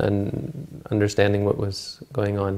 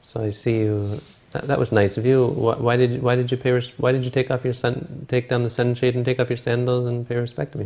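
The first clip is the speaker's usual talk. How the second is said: mock-impressed king, a touch sarcastic; 3 semitones higher than usual. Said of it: "gets all sarcastic".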